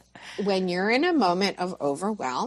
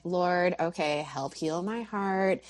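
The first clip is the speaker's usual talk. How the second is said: soft prayer; 4 dB quieter than usual. Retold or imitated. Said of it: "go to this place of like".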